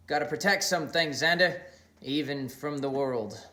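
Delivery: a light touch of menace; ominous Mickey. Acted. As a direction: let it hang like a threat. Mickey's ominous parting remark.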